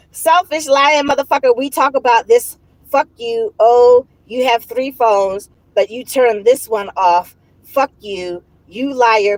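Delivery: hammed-up fury, read out; mock angry rant. Reading the ex's angry texts aloud, a mild mock rant. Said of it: "That's what he said".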